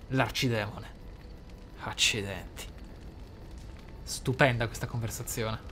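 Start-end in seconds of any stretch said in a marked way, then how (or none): none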